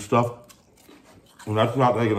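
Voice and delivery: talking between bites; chewing while talking. Real, not acted. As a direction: mouth partly full. Seen 0: Bites orange snack at 2.1s, then talks while chewing it.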